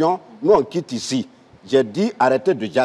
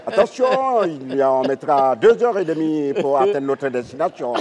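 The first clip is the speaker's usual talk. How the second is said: pilot announcement. Acted. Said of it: "le capitaine Gou à bord".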